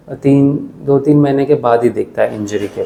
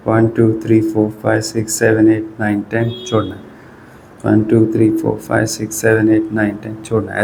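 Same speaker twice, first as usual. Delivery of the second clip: exercise count. Shown as a demonstration. Physio counting viewers through an isometric wall push, steady count. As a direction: count the hold out evenly, like a physio.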